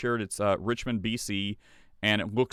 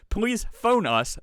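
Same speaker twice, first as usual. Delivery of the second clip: high, slow formal plea; town crier; 10 semitones higher, 4 dB louder, slower than usual. Pretend. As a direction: proclaim it politely. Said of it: "like a town crier".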